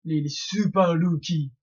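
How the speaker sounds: slow mock Japanese accent on Super Lucky. Fan joking to viewers about One Piece rookies, mock Japanese accent. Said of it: "Vous avez vu mon accent japonais".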